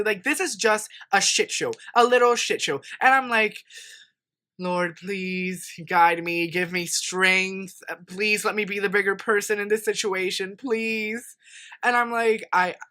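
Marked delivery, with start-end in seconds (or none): 4.6-11.4 slow, drawn-out plea to heaven; mock prayer. Driver asking the Lord for strength, slow mock prayer. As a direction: play at praying for patience, stretching the words. Acted plea to God mid-argument.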